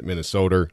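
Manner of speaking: "Minnesota" ending in an R sound; added final R. Shown as a demonstration. Guest showing how back home says it, added final R. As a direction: tack an R onto the end of "Minnesota". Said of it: "that's how they would say it".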